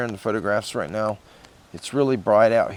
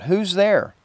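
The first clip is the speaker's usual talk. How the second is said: high, loud call into the dark house; 10 semitones higher, 6 dB louder than usual. Retold or imitated. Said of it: "I called out".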